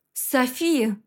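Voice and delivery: put-on a touch of fear, calling the girl's name; mild scared call; frightened cry. Ghost calling to dying Sophie, frightened. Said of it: "напуганный голос призрака".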